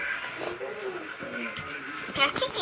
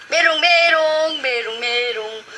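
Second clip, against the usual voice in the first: teasing; slower than usual. Real, not acted. Teasing the older brother in game.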